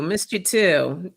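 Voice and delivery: ordinary delivery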